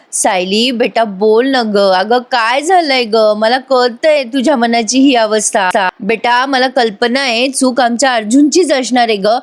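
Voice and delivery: gently coaxing a tearful daughter-in-law, slowly; slow pleading mother-in-law voice; slow, tender coaxing. Acted. Tearful mother coaxes Sayali.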